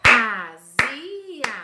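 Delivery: Azia drawn out syllable by syllable; syllables clapped. Shown as a demonstration. Teacher claps out Azia for pupils. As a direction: clap out A-zi-a. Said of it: "Quantas vezes eu bati palma".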